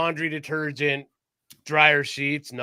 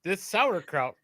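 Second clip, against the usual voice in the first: mock sponsor plug; 3 semitones higher, 3 dB louder than usual. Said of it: "brought to you by".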